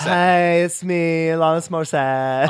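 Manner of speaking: puppet voice. Pretend. Plays a singer puppet.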